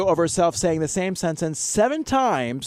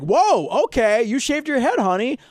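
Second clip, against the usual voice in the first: mock fake-polite boyfriend; 7 semitones higher than usual. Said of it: "he's just like".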